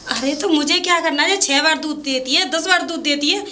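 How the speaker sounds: exasperated. Acted. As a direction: build impatiently to an indignant question. Annoyed by pointless buffalo talk.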